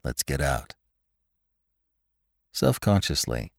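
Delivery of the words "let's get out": whispering. A narrator's reading. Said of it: "he whispered".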